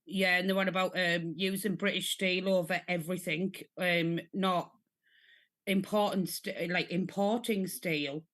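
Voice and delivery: talking funny after tooth out. Real, not acted. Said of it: "I'm talking funny 'cause I had a tooth out".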